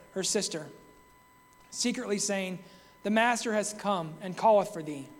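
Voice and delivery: measured, solemn Bible reading; scripture reading. Acted. Preacher reading John's gospel to the congregation, solemn. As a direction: read the verses with reverence. Reads scripture passage aloud.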